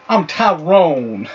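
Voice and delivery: put-on slow, loud African American accent; drawn-out African American accent. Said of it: "That's not how I do my black voice".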